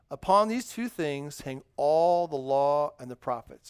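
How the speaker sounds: slow, careful Bible reading; nice and slow. Shown as a demonstration. Pastor reads the verse to children, slow and deliberate. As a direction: read each word slowly to the kids. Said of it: "I'm gonna read this nice and slow".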